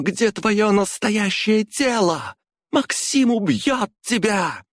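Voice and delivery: high, slow defiant taunt; defiant woman. A narrator's reading. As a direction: warn him he will fall. Sveta defies Konstantin.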